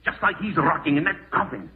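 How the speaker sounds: loud, vicious gloat over her; gloating menace. Acted. Gloating down at the fainted woman, loud and vicious. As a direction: spit the threat down at her.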